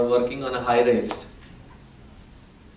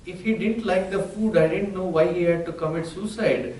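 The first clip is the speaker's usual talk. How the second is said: indignant wife; 7 semitones higher than usual. Retold or imitated. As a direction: spit out the punchline in outrage. Indian wife's indignant punchline.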